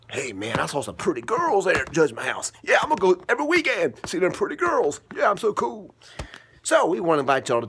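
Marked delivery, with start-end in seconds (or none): 0.1-6.0 cool dude. Acted. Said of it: "Hey, Kulo, you wanna go?".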